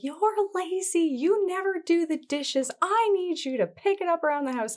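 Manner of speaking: wife scolding husband about the dishes; accusing. Shown as a demonstration. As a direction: blame the spouse. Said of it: "not gonna be received very well".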